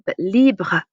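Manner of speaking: libre said the French way, with a rolled r; teacher says libre slowly for the class. Shown as a demonstration. Teacher models libre for students, carefully. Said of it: "libre means free".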